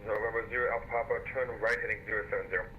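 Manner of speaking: radio-filtered controller voice; over a pilot headset. Real, not acted. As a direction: ATC squawk through the headset.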